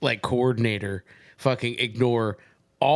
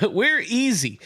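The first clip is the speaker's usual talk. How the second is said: high, loud whiny begging; mock pleading; 10 semitones higher, 7 dB louder, slower than usual. Salesperson begs to escape long meeting, mock pleading. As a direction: plead like a trapped captive, hammed up. Acted plea to leave meeting.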